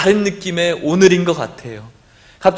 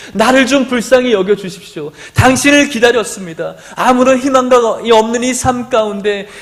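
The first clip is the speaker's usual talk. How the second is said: raised, imploring plea to Jesus; pleading cry; 4 semitones higher than usual. Acted. Blind Bartimaeus crying out to Jesus, pleading. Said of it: "바디메오가 외쳤어요".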